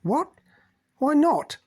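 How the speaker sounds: loud, high outburst; exploding. A narrator's reading. Pascal to Cynthia, exploding in outrage. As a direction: burst out in disbelief. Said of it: "Pascal exploded".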